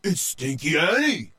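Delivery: a sailor spotting danger; alarmed pirate. A narrator's reading. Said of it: "someone said".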